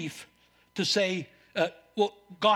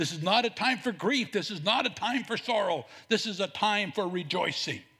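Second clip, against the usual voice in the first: ordinary talk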